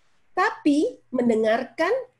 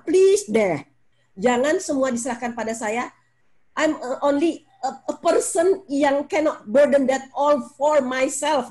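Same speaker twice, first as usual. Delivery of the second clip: pleading mother. Retold or imitated. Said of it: "mother pleading to family".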